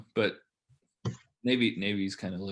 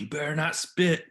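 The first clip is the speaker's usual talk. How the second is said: mock officer warning; 5 semitones higher, 3 dB louder than usual. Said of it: "He's like".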